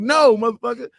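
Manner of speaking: loud, high mock refusal; comic shouted no; retold refusal. Retold refusal to insistent stranger.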